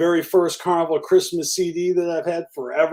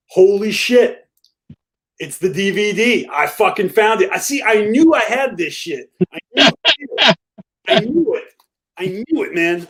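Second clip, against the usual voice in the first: excited; 4 semitones higher than usual. Real, not acted. Finds the long-lost DVD.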